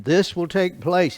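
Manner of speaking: "This will take place" slow, leaning on will; slow firm emphasis on will; stress on will. Shown as a demonstration. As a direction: read it slowly, firmly, meaning will. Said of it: "He didn't say, "This might take place".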